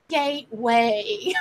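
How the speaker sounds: slow, drawn-out mock ghost voice; imitating the creepy voice. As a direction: echo the spooky box voice, slow and lightly voiced. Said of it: "Did you hear that voice?".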